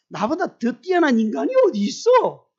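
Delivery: high, loud cocky boasting; arrogant boast. Retold or imitated. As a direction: brag like no one is better. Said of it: "이렇게 말할 준비가 되어 있다니까요". (잘난 척하는 높고 큰 목소리)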